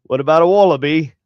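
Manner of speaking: put-on Australian accent. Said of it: "switch into Australian from there".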